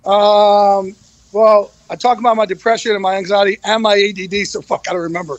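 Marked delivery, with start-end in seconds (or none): 4.4-5.4 laughing. Real, not acted. Laughs at forgetting his book.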